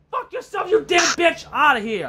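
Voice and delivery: high furious yell at the opponent; angry shout. Real, not acted. Gamer screaming at the rival Pokemon in a high furious yell. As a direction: scream it in rage.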